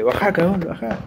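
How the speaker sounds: impression of a rapper. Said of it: "Como un rapero cuando dice".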